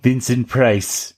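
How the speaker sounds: slow, stretched-out actor impression; lightly voiced impression, lingering on each word; Vincent Price. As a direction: intone the name slowly in character. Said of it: "That's my Vincent Price impression".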